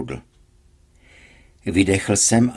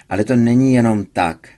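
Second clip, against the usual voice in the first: raised voice; 3 semitones higher, 6 dB louder than usual. A narrator's reading. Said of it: "začínal zvyšovat hlas".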